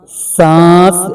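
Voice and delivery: सांस drawn out slowly with a nasal आ; slow nasal demo. Shown as a demonstration. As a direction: stretch सांस, nasal vowel and no न. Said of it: "नून की बू आएगी". (सांस धीरे, नाक की आवाज़ के साथ)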